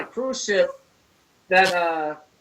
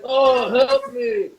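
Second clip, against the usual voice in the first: slow, drawn-out, louder mock plea; mock cry for help; 2 semitones higher, 5 dB louder, much slower than usual. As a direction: call out like a hammed-up movie victim. Acting out victim crying for help.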